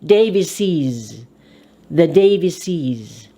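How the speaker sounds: "Davises" ending in a clear -iz; "Davises" said DAY-vi-seez. Shown as a demonstration. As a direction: pronounce the ES of "Davises" as IZ. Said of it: "The E S is pronounced I Z".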